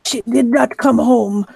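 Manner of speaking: upset, emphatic denial; distraught mother. Acted. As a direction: insist on it as a worried mother. Mother insists her daughter is missing.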